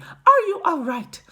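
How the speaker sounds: very high, loud mother's wail; anxious high-pitched calling; frantic cry. A narrator's reading. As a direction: cry out in worry to your child. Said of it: "cried Missus Teavee".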